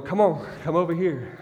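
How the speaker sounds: put-on calling a wandering child back; coaxing father.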